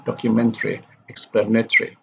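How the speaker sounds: docu-MEN-tary, ex-PLAN-atory; third-from-last stress. Shown as a demonstration. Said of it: "stress is on the third syllable before the end".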